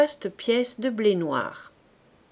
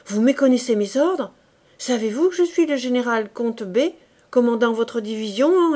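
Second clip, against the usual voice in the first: indignant, louder officer pulling rank; furious general; 2 semitones higher, 6 dB louder than usual. Acted. Wounded general rebuking the insolent corporal, indignant. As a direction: puff up and demand obedience. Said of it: "dit le général en fureur".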